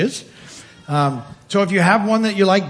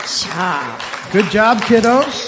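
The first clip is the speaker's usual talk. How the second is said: put-on overbright kids party host; 2 semitones higher, 3 dB louder, much slower than usual. Praising children.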